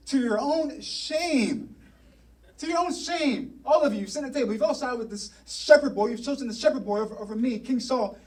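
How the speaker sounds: indignant, accusing king, pitch climbing; angry Saul. Retold or imitated. Saul rebuking Jonathan at the dinner table, indignant anger. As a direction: act out a king scolding his disloyal son. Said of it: "Saul's anger flared up at Jonathan".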